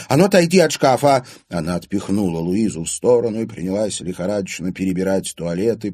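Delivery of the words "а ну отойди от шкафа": high, loud command; urgent order. A narrator's reading. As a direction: shove a friend aside with your voice. Ordering a friend aside in panic. (громко, повелительно)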